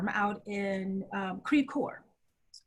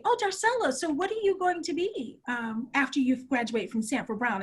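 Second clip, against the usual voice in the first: disdainful; 2 semitones higher than usual. Retold or imitated. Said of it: "said it with the most disdain".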